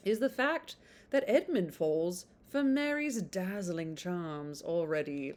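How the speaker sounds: put-on blurb read on in a light British accent. Reading the blurb to viewers, still in a British accent. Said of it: "I do do British accent".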